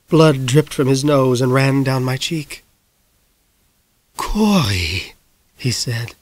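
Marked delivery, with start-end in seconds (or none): 4.1-5.1 gurgling voice. Acted. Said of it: "his voice gurgled".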